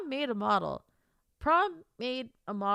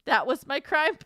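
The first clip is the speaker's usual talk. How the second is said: ordinary delivery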